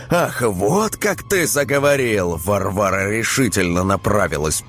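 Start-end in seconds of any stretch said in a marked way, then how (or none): 0.1-2.4 indignant wife. A narrator's reading.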